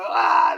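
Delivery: sudden loud mock yelp; mock scream. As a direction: cry out in pretend alarm. Imitates jump scare in the short.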